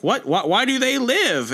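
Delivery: high-pitched stammering creature protest; mock alien screech. Meek protesting that enemies are spared, mock alien screech. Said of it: "screeching in his alien screech".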